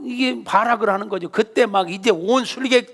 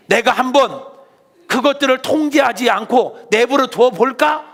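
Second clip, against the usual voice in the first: stern God; 5 semitones higher, 3 dB louder than usual. Acted. God rebukes the Egyptians.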